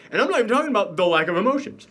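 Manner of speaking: fast words between hiccups; talking through the hiccups. Real, not acted. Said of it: "man, hiccups".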